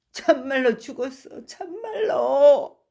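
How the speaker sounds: high, crying voice breaking; drunken sobbing. Acted. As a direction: weep over his dead wife. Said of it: "훌쩍훌쩍 울기 시작하였다".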